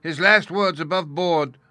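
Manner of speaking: slow frightened moan; fearful moan. A narrator's reading. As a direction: moan it as if the ghost is near. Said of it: "moaned Morgan".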